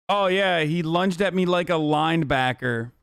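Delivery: mildly mocking a coached witness; imitating a scripted-sounding answer; mock rehearsed testimony. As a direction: recite it like a memorized line, sarcastically. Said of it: "that seems so fucking memorized and coached".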